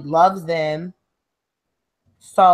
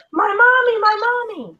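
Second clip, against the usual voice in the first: imitating a crying toddler. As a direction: mimic the little kid calling for mommy.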